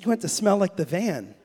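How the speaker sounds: incredulous echo through a laugh; chuckling, can't believe the request; laughing disbelief. Retold or imitated. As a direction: repeat his words, amused and surprised. Father echoes son incredulously.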